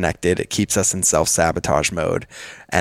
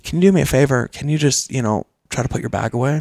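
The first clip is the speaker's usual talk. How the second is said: mock sweet wife request; 7 semitones higher, faster than usual. Wife's request voiced in story.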